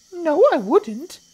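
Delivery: high, loud, slow little croc protest; not-so-big crocodile. Acted. Not-so-big crocodile contradicting the enormous one, high slow protest. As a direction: protest in a tiny high creature voice.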